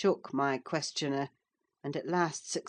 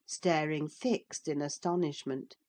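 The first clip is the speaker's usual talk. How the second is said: ordinary delivery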